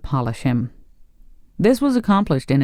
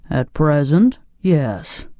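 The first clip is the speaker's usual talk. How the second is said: mildly resigned reply; sighing; slower than usual. A narrator's reading. Pumpkinhead asked about his health, sighing. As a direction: answer with a touch of a sigh. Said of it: "replied the Pumpkinhead with a sigh".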